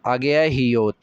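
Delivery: ordinary talk, nothing marked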